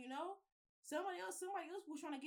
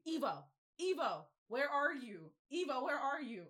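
mild mock yell; 3 semitones higher, 5 dB louder than usual. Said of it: "She yelling".

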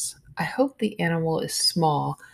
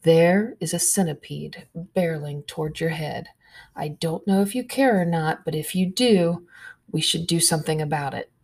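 calmly. Acted. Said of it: "She says calmly".

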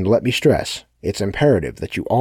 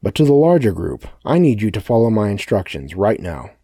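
loud, higher menacing address; loud threatening speech; 4 semitones higher, 8 dB louder than usual. A narrator's reading. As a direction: loom over them with loud threats. Sebastian threatens the crowd.

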